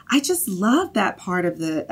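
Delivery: slow, thick Southern mom drawl; Southern accent. Retold or imitated. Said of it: "my mom impersonation is, like, a very thick Southern accent".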